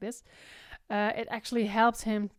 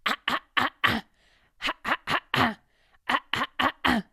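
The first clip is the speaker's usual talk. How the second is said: rough, buzzing ah, ah, ah, ah, louder; teacher demonstrates the rock distortion sound, gritty ah; distorted ah; 2 semitones higher, 6 dB louder, faster than usual. Shown as a demonstration. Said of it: "This is the distortion sound".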